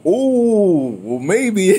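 mock modest chuckle. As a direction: act pleasantly surprised with a laugh. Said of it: "I'm going like".

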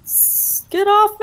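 high yelled panic; panicked shout. Real, not acted. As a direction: shout as you get grabbed. Being attacked in game.

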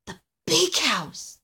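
high, slow, daunted echo; awed little Alistair. A narrator's reading. Little elf thinking of Santa's scary house, daunted. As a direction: stretch it out high in dread. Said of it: "thought Alistair".

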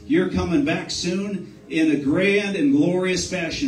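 lifted, fervent prayer voice; fervent public prayer. Real, not acted. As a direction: pray aloud with building praise. Leads a closing prayer.

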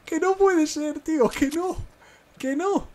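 very high, screaming disbelief; wild gamer scream of joy; ecstatic shouting. Real, not acted. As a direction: shriek it out, thrilled and stunned. Disbelief after a big kill streak.

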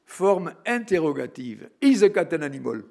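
mock schoolteacher quizzing the class; imitating the teacher asking. English teacher testing the silent class, loud. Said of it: "un exemple des premiers cours".

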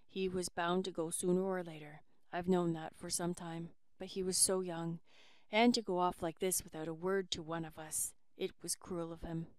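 a tired, grave father; lightly voiced father. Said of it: "said Long Alec".

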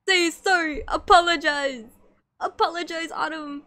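hammed-up demand for an apology; mock scolding. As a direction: scold like a stern parent, half-joking. Scolding the viewer playfully.

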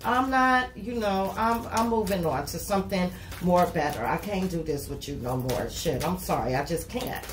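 voicing the client dumping the partner, fading to sorry; mock breakup speech. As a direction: act out the client leaving a partner. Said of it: "You was like".

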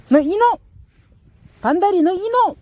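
laughing mock telling-off; playful scold. Real, not acted. Owner playfully scolding puppy, laughing mock telling-off. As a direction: pretend to be cross, can't hold the laugh.

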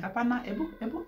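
high, laughing insistence; eager insistence. Retold or imitated. Husband begging to hear the message, high and laughing. Husband excitedly demands to read.

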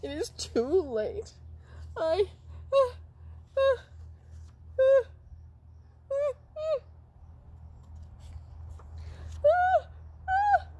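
very high squeaky voice winding up a sneeze; high puppet sneeze buildup. Pretend. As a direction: stretch out the uh uh into a big ah.

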